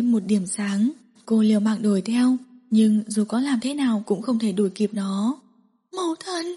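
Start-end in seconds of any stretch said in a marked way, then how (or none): 6.0-6.5 murmured. Acted. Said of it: "thì thầm".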